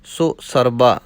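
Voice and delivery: ਸੋ split off clearly from ਸਰਬਾ; careful pronunciation demo. Shown as a demonstration. Teacher showing students how ਸੋ stands apart from ਸਰਬਾ. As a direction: say ਸੋ with a small gap before ਸਰਬਾ. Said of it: "ਸੱਸੇ ਨੂੰ ਔਂਕੜ ਥੋੜ੍ਹਾ ਜਿਹਾ ਅਗੇਤਰ ਅੱਡ ਕਰਨਾ ਹੈ".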